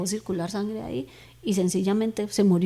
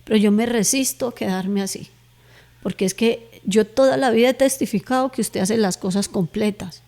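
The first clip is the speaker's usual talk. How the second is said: retold plea to God, pressing and a little louder; insistent prayer; 5 dB louder than usual. Woman retelling her prayer to God to heal her, insistent pleading. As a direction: argue your case with God, building in force. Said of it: "Yo le decía en la oración".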